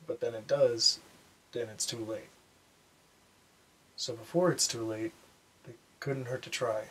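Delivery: measured, understated spoken monologue with long pauses; subdued, contemplative lesson about loss; reflective monologue. Acted. Performs a reflective scripted monologue.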